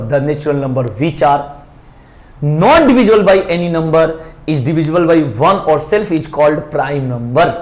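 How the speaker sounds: slow, word-by-word dictation of a definition. Shown as a demonstration. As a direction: read it out slowly so students can write it down. Dictates definition again slowly. (धीमे-धीमे लिखवाते हुए)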